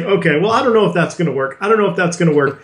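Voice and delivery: quick, offhand shutting down of ideas; mock-dismissive mentor brushing off ideas. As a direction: rattle off a doubtful no to wave ideas away. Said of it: "I was being horrible".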